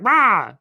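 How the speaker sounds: short mock roar; mock angry roar. Jack and Jill erupting over the pig, mock roar. Jack and Jill's outburst acted out.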